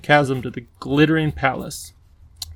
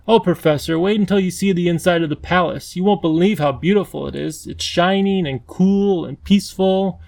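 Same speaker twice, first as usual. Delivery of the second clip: put-on higher, gentle, coaxing girl voice; coaxing young girl; 4 semitones higher than usual. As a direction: talk him across, soothing and eager. Lindy coaxing across bridge.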